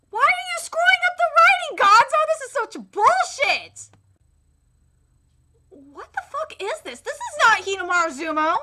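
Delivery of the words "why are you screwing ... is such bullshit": angry complaint. Real, not acted. Yelling at studio.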